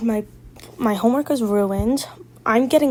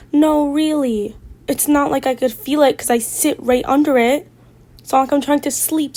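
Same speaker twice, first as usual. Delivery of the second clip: heavy sarcasm; 4 semitones higher, 5 dB louder than usual. Real, not acted. Sarcastic reply to the friend.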